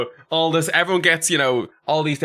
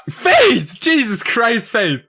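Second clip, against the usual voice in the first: louder, higher, slow dragged-out cry of the name; shocked outcry; 9 semitones higher, 5 dB louder, much slower than usual. Retold or imitated. Streamer recalling teacher's shocking reading, shocked outcry. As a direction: call out in disbelief.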